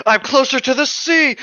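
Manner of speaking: high, loud laughing cry; real laughter at the logic; laughing outburst. Real, not acted. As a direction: crack up mid-line. Laughing realization during reading.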